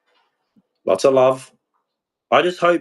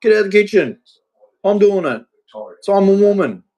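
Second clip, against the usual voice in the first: high, louder mock of the woman; imitating her; 7 semitones higher, 3 dB louder than usual. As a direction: bark it like she did, pitched up and pushed. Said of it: "Yeah, that was it".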